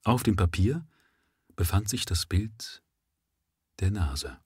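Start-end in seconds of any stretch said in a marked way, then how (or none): 1.5-4.4 hushed, whispered reveal; suspense whisper. A narrator's reading.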